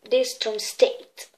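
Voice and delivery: slow, showy English accent on the name. Shown as a demonstration. French host boasts of reading a prison's name, English accent. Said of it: "Vous avez vu l'accent anglais?".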